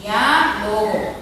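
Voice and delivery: "Diálogo" drawn out very slowly, each syllable clear; slow demonstration. Shown as a demonstration. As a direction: spell out "Diálogo" slowly for the class. ("Diálogo" pronunciado muy despacio, sílaba por sílaba)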